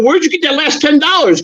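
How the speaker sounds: high, lightly voiced suspicious wife; imitating his wife. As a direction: mimic the wife asking where the money went. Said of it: "my wife goes".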